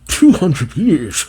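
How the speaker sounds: slow, laughing disbelief; incredulous laugh. Real, not acted. Viewer hearing the two-century estimate, laughing in disbelief. Shocked at long decay estimate.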